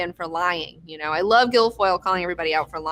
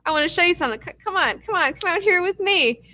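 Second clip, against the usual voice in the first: smug Gavin; 8 semitones higher than usual. Retold or imitated. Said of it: "he's like".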